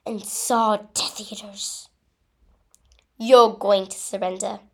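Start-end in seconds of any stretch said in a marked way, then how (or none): 3.2-4.6 loud acted yell; yelled threat. A narrator's reading. Death Eater threatening the intruders, yelled. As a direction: yell it out as an order. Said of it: "yelled one of the Death Eaters".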